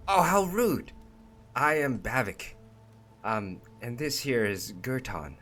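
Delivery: a flustered goblin catching his manners; Bavik. Acted. Goblin introduces himself and the ogre, high and embarrassed.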